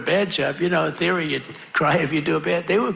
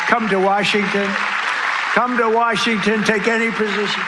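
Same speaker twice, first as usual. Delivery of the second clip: coaxing invite; 3 semitones higher than usual. Retold or imitated. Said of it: "I've offered him".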